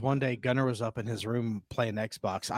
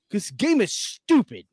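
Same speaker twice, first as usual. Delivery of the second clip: son whining; 8 semitones higher, 3 dB louder, slower than usual. Retold or imitated.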